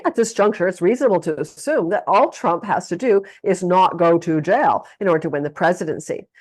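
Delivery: lightly dramatic newsreader delivery; dramatic reading. Shown as a demonstration. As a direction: read it with a touch of gravitas. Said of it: "I'm gonna try to dramatically read".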